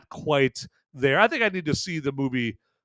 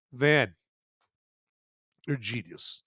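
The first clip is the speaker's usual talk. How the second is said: mock awed praise; 2 semitones lower, 6 dB quieter than usual. Imagined chat viewer praises Van's list, hushed mock admiration. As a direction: drop to a hushed, mock-reverent tone.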